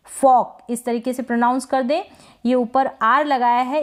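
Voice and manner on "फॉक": फॉक with the R barely there; only half pronounce the R in फॉक; one-syllable फॉक, R softened almost away; half-sounded R. Shown as a demonstration. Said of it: "आधा इसका pronunciation हो रहा है".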